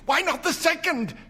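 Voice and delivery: high, loud feverish question. A narrator's reading. Wife feverishly pressing for the second wish. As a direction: push it out feverishly. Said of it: "said the old woman feverishly".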